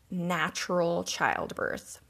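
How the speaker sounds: put-on slow, wry quote-unquote natural childbirth; drawn-out skeptical "natural childbirth"; ironic air quotes. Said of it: "quote-unquote".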